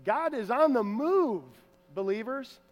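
a light hint of a sat-nav voice; Google voice. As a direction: read it like a navigation app. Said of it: "I can just hear Google saying it".

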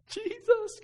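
put-on high, loud wail of a crying toddler; imitated crying. Bawling daughter repeats the prayer after dad, crying. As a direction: imitate a bawling child struggling to get the word out. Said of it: "crying, barely could say Jesus".

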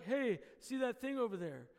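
offhand, casual aside; casual, unemphatic. Shown as a demonstration. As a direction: toss it out like it hardly matters. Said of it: "It's not just like".

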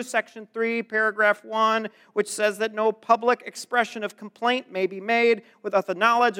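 lightly nasal fussy clerk; a hint of a whiny, nerdy bureaucrat; nasally voice. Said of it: "like, a real nasally voice".

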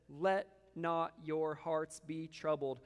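slow, calm comfort; a slow hush of comfort; gentle reassurance. Acted. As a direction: settle troubled hearts slowly. Quoting Jesus comforting disciples.

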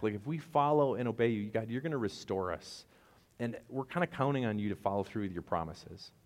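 a hint of Nehemiah's urgent prayer; pleading prayer. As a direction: beg God to keep his promise.

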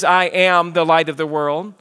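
"I am" leaned on firmly; weight "I am" as a solemn claim; emphasis on I AM. Retold or imitated. Preacher quoting Jesus in John, great emphasis on "I am". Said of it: "stated with great emphasis".

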